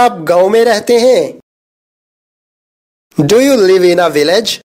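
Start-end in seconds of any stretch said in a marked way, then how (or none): 3.2-4.6 slow, careful English sentence; slow model reading. Shown as a demonstration. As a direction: say each word slowly and clearly. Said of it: "teacher says sentence slowly".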